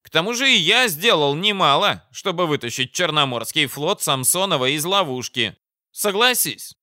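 high-pitched, pompous commander; self-important officer laying down terms; blustering enemy commander. Acted. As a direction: declaim it high at a foe.

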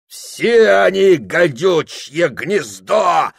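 slow, high, loud curse; furious shout. A narrator's reading. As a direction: spit it out in rage. Drunk Yashka curses the bosses.

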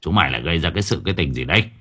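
fast, low, resentful grumble. Acted. Father grumbling fast and low at his sons. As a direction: mutter it fast and low, fed up. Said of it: "Đồ Đức hậm hực".

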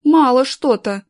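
slow, loud menacing hiss; sinister hiss. A narrator's reading. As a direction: hiss it like a villain. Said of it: "зловеще прошипел Шурик".

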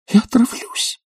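high, breathless whispered sob; tearful whisper. A narrator's reading. Young lady whispers a tearful threat to the professor. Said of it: "плакала барышня".

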